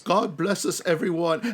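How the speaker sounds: high, sweet mock-orphan voice; orphan's blessing. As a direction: bless them like a little storybook urchin. Quotes the orphan's parting blessing.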